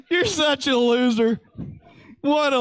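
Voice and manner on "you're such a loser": laughing tease. Real, not acted. Laughs while teasing.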